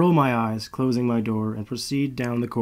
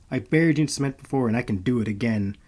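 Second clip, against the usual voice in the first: growled threat; faster than usual. Acted. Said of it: "I growled at him".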